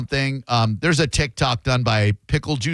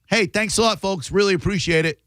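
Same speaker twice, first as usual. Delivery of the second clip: high, overly polite server's thanks; mock-grateful; 6 semitones higher than usual. Server calling out to bad tippers, mock-grateful. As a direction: thank them with pointed, put-on cheer.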